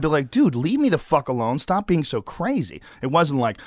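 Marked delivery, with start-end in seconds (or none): 0.3-2.8 exasperated plea, pitched up, slowing at the end; a touch of fed-up irritation; retold anger. Retelling how he fended off a pestering co-star, mildly angry. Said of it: "I was angry because he was".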